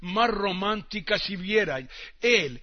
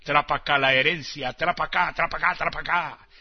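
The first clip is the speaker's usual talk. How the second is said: greedy Trombino. Acted. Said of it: "dice Trombino".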